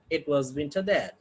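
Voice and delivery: "it was winter there" falling to a low close. Shown as a demonstration. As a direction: let "there" drop to finish the sentence. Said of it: "second tone group may ask in ri-, falling tone".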